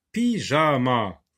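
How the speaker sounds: "pyjama" slowly as py, ja, ma; "pyjama" in three slow beats; syllable by syllable. Shown as a demonstration. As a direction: stretch out each syllable of "pyjama". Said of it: "les trois syllabes".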